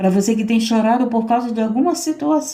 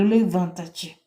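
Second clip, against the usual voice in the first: building command. Retold or imitated. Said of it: "ele tá dizendo".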